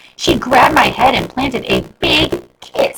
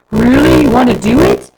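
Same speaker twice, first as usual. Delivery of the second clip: higher, louder excited questions; thrilled; 6 semitones higher, 7 dB louder than usual. A narrator's reading. Jennifer overjoyed about dance lessons, high excited voice. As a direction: burst with delight.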